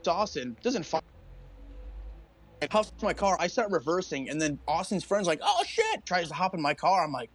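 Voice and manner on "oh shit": high, alarmed imitation at normal volume; mock panic. Storyteller imitating a friend scrambling for the getaway car, panicked. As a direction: yelp it like someone about to flee.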